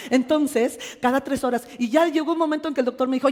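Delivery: usual speaking voice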